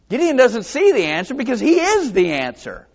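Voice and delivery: preacher's emphatic reveal; emphatic punchline. Real, not acted. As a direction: drive the point home. Sermon punchline.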